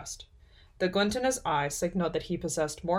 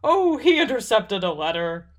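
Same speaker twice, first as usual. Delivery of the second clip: higher, offhand elf voice; absent-minded; 4 semitones higher, 5 dB louder than usual. A narrator's reading. Elf giving away a secret, absent-minded. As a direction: let it slip airily. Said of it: "the elf said absent-mindedly".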